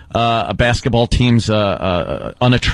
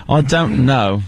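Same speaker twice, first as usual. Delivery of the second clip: British accent. Shown as a demonstration. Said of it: "Can you do a British accent?".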